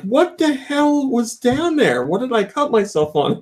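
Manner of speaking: hammed-up bewildered complaint; retold exasperation. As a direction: demand answers in mock outrage. Retold outrage at hidden hazard.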